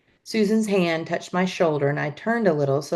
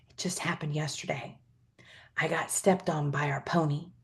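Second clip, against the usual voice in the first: much softer hushed confiding; whisper; 9 dB quieter than usual. A narrator's reading. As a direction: whisper it close to her ear. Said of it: "I leaned close and whispered".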